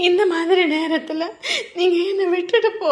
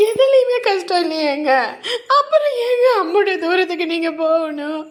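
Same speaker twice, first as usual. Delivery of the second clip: pleading through tears with a broken laugh; tearful pleading. Acted. Wife begging her husband not to leave, tearful. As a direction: plead with him, voice wet with crying.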